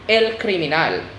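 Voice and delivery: "criminal" said kree-mee-NAHL, weight on the end; last-syllable stress. Shown as a demonstration. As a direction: stress the final "nal" of Spanish "criminal". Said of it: "it's always at the last syllable".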